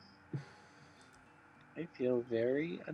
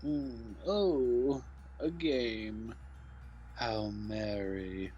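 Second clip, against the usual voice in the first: Snooty Booty voice; 3 semitones lower, much slower than usual. Acted. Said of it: "you can do a Snooty Booty voice".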